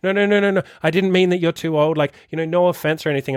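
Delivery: put-on high, hurried walk-back of a nervous young client; mock flustered backpedal. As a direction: client scrambling to take it back. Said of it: "they'll be like".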